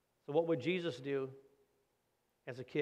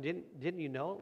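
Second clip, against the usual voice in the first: matter-of-fact, mildly puzzled question; a light touch of surprised innocence; as if it's obvious; 2 semitones higher, slower than usual. Retold or imitated. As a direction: ask like the answer is plain. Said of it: "Like it was obvious".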